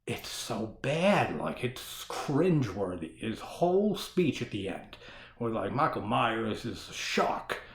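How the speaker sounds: lightly put-on voice mocking a bad speech; odd put-on voice. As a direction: drag it out in a weird mock voice. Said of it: "I don't know why I'm talking like this".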